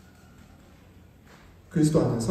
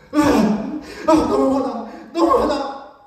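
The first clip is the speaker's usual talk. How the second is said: put-on high, tearful child's wail with a laugh; imitating a crying child; 7 semitones higher, 6 dB louder, much slower than usual. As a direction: mimic the angry sobbing child, half-laughing. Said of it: "막 눈물을 뚝뚝 흘리는".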